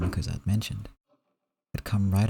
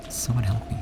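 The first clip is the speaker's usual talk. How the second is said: frightened plea. Acted.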